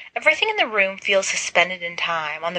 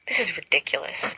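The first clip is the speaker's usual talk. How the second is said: snapping; 4 dB quieter than usual. Acted. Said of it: "Narcissa snaps".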